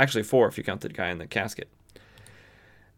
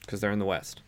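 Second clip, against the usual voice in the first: usual speaking voice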